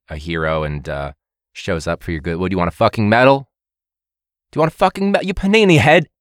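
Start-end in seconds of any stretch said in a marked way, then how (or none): 2.4-3.5 louder mock chef sneer; mock a keen admin like an angry chef; hammed-up Ramsay scorn; Gordon Ramsay impression. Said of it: "terrible Gordon Ramsay". 4.5-6.1 high, louder mock chef yell; hammed-up Ramsay outburst; Gordon Ramsay impression. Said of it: "terrible Gordon Ramsay".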